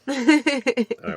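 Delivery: high laughing all right. Real, not acted.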